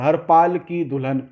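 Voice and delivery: हर पाल run together as a name; misread grouping. Shown as a demonstration. Teacher showing how the verse gets misunderstood, run-together grouping. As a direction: join हर पाल, then की दुल्हन. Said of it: "इसका अर्थ इस तरह से निकला".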